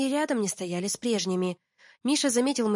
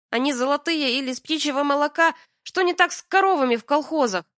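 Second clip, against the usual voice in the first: higher, louder exasperated scolding; exasperated near tears; 5 semitones higher, 4 dB louder than usual. Acted. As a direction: scold him close to tears. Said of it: "Я почти плакала".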